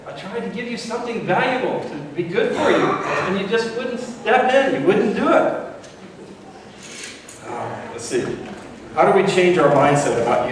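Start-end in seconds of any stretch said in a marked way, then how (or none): 0.1-5.5 much higher, exasperated, laughing reproach; God's gentle rebuke. Retold or imitated. God answering the drowned man in heaven, high laughing exasperation. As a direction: chide him fondly, half laughing. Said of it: "God says to him".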